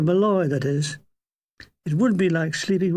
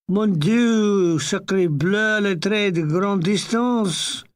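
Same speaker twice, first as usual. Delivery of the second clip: excited French driver; slower than usual. Retold or imitated. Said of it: "he threw his arms in the air".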